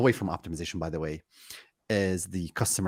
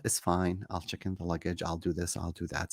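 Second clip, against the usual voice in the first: resigned; 2 semitones lower, 6 dB quieter than usual. Retold or imitated. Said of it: "I get so annoyed with the ticket agent".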